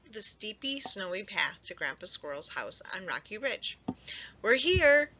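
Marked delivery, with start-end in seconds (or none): 4.4-5.1 higher, bright cheer. A narrator's reading. Baby mice arriving at Grandpa's house, cheering. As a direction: squeal it with delight. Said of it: "cheered the baby mice".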